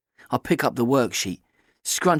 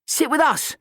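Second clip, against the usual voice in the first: put-on leering boys. A narrator's reading. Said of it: "the boys at the back leer".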